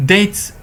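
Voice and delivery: "dates" said with no b sound; silent b. Shown as a demonstration. Lecturer shows students debts has a silent b. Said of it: "الباء لا تلفظ".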